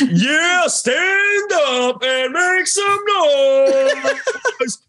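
very high, loud, drawn-out arena shout; fighting game announcer. Pretend. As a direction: hype the crowd like a ring announcer. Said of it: "Give us some announcer voice".

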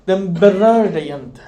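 slow, with a break of tears; tearful. Shown as a demonstration. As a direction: let it crack with feeling. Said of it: "Det är det som är skillnaden". (gråtmilt och långsamt)

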